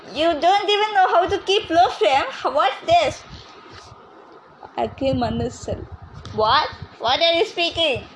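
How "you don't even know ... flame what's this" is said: laughing scolding. Acted. Grandma mocking clumsy grandson.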